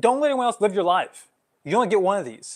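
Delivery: heated, agitated, worked-up voice, pitched high. Speaker admits to getting worked up while addressing a listener, worked up. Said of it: "I'm getting worked up right now".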